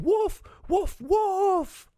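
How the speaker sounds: high, loud shouted cry; shouting. A narrator's reading. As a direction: yell out across the field. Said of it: "hitting the sticks together and shouting".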